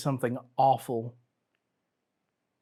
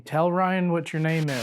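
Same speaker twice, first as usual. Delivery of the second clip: calling out; 3 semitones higher, 3 dB louder than usual. Real, not acted. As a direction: call out into the dark cabin. Calling out to a spirit.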